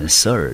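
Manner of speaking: "sir" said as one model syllable; syllable pronunciation demo. Shown as a demonstration. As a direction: demonstrate the sound "sir" for learners. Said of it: "我们念成sir的音". (示范念出 "sir" 的音)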